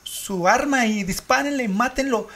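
high, slow begging; desperate high plea. Retold or imitated. Caller begging police to kill the chimp, desperate. Retold frantic 911 call.

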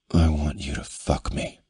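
words forced through gritted teeth. A narrator's reading. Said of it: "he said through gritted teeth".

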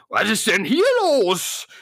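whispered stage hiss. Acted. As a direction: hiss it out slowly. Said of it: "jetzt zischt es".

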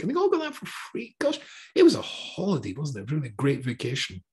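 a touch of sarcastic glee. Acted. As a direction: play up the holiday to mock it. Sarcasm about Egypt's free food.

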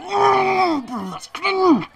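high, shrill-free mock gasp at cringe; mocking cringe reaction. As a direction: sneer it like an online critic. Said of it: "someone would just go".

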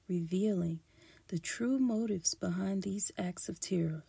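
measured, emphatic documentary-style read; formal read-aloud delivery; scripted history narration. Acted. Reads a prepared history script.

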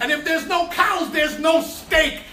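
preaching at full force. Acted. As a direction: drive each point home to the congregation. Preaching builds to shouts.

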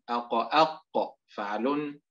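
أق، أق slowed, each echo held; أق، أق dragged out; slow, drawn out. Shown as a demonstration. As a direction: stretch out أق، أق. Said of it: "بما يخص القاف".

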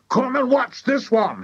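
very high, eager call; excited shout. A narrator's reading. Mister Cranky summons his wife to watch, excited shout. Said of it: "he shouted to Missus Cranky".

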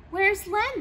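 high, alarmed question; suddenly notice he's gone; startled question. A narrator's reading. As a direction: friends realising Len is missing. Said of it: "they both said".

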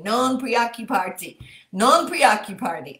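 Italian read with a little Texas accent; light Texas twang on Italian words. Real, not acted. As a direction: say the Italian like a Texan. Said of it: "That's a little Texas accent".

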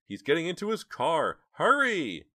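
high, loud warning; urgent high-pitched yell; panicked cry. A narrator's reading. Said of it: "cried Jade".

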